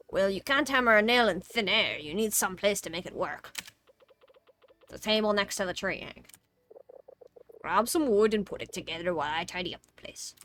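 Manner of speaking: hammy workman explaining the task; game character voice. Acted. Game character explaining the workbench, emphatic character voice.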